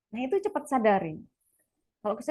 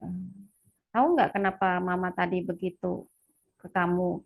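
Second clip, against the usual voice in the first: put-on gentle talk with child; 4 semitones lower than usual. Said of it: "gitu, ke anak saya".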